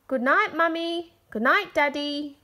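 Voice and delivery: high, loud bright goodnight; little girl voice. A narrator's reading. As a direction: call it out sweetly to parents. Children calling goodnight.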